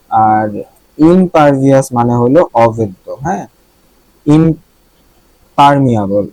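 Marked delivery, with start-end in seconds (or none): 4.3-6.3 ইমপারমিয়াবল spelled out slowly, syllable by syllable; slow careful pronunciation. Shown as a demonstration. Teacher modelling the word for students, slow and careful. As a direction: draw out ইমপারমিয়াবল so students can copy it. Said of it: "পারমিয়াবল আর ইমপারমিয়াবলটা দেখে নিই".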